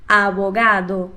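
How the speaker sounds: Abogado slow, the B nearly a V; slow model word; Spanish B. Shown as a demonstration. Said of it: "Então repete lá".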